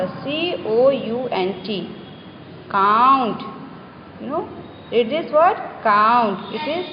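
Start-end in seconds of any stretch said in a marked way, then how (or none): 2.7-3.4 काउंट with its vowel drawn out; long vowel sound. Shown as a demonstration. Teacher reading a long U word for pupils, drawn-out vowel. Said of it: "long sound में क्या होता है". 5.8-6.4 "count" with the ou held long; long vowel sound. Shown as a demonstration. Teacher naming the long sound for children, drawn-out vowel. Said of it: "long sound of vowel U".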